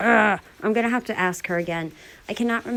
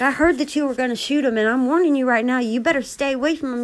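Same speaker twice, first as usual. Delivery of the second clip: threatening warning; 6 semitones higher, faster than usual. Retold or imitated. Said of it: "Missus B was like".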